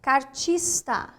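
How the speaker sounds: Cartista said slowly, syllable by syllable; teacher modeling cartista slowly; slow syllable demo. Shown as a demonstration. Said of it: "Esse R é um R fraco".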